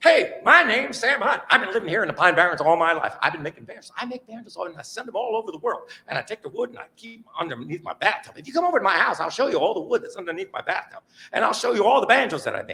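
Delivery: high, fast, furious, nonstop rapid-fire talk. Retelling what an old banjo maker said: imitating someone talking fast. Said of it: "This guy talked fast and furious".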